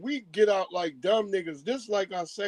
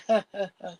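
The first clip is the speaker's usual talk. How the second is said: imitated laugh; faster than usual. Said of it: "he start laughing".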